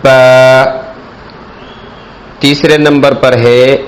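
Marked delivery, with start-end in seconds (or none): 0.0-0.6 با with both lips pressed and released; lips together. Shown as a demonstration. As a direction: pop the lips shut for با. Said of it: "دونوں ہونٹوں کو آپس میں ملا کر".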